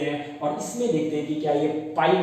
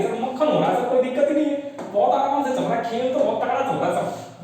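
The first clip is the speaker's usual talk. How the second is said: higher, breezy pupil bragging to sir; lightly voiced student gloating; mock student voice; 5 semitones higher than usual. Teacher voices pleased student.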